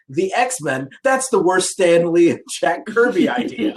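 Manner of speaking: a 1975 comics fan dismissing the X-Men with mild mock disdain; mock fan scorn. A hint of grumpy fanboy sneer. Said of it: "the nineteen seventy-five equivalent of me was like".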